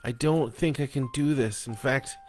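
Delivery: a hint of a frightened wife; tearful wife. Wife pleading with husband at three A M, timid.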